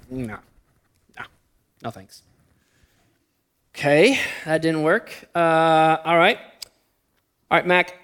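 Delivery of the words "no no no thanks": put-on tiny, far softer toddler voice saying no; a two-year-old's offhand no thanks, voiced small; toddler's refusal. Nephew refusing the tractor bribe, in a tiny hushed toddler voice. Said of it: "He thinks about it".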